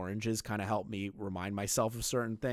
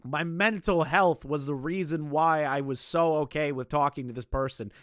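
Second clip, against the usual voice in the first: loud, higher hammed-up excuse; mock feigning; 5 semitones higher, 10 dB louder than usual. Streamer mocking a developer's mental health excuse, feigned. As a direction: imitate a fake plea, exaggerated and loud. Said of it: "like, the whole feigning, like".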